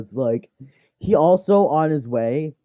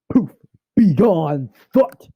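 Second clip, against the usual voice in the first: rising, louder to a high squeak on thought; hammed-up banishing spell; playful hammy banish; mock dismissal; 5 semitones higher, 6 dB louder, slower than usual. Acting dismissive magic line.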